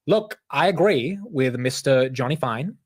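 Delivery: slow, weak mock British accent; badly faked British accent, slow. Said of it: "I can't even do a British accent".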